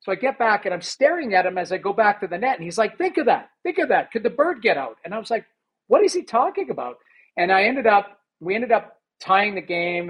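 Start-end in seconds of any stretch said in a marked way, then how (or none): 3.0-5.0 higher, repeated nudging; mock-insistent coach calling after the goalie; nagging coach. 5.9-7.0 higher, baffled aside; mock-bewildered young goalie; bewildered thought. Goalie's bewildered inner reaction.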